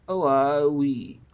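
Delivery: Scottish Shadwell. A narrator's reading. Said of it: "said Shadwell automatically".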